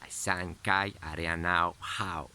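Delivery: made-up gibberish words; fake foreign language. Shown as a demonstration. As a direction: babble in an invented tongue. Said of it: "hablar en idioma inventado".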